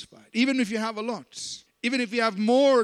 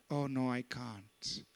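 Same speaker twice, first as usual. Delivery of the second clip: slow, softer whiny refusal; mock reluctant believer; 7 semitones lower, 10 dB quieter, slower than usual. Preacher mocking a member refusing to sleep on the floor, slow and whiny. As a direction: drag out the excuse in mockery.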